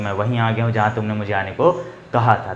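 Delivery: low, quick filmy ransom-drop line; film kidnapping dialogue. Retold or imitated. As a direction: deliver it like a movie hero arriving with the money. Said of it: "फिल्मों में देखते हो कि जब kidnap कर लेते". (फिरौती देने पहुँचे हीरो का फ़िल्मी डायलॉग, धीमी आवाज़ में तेज़ी से)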